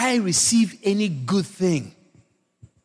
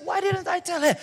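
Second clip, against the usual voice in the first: mock indignant cry; 8 semitones higher, 3 dB quieter than usual. Pastor retelling the paint-shop mother's complaint, mock outraged. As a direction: throw her reproach out, half amused. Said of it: "she's telling me".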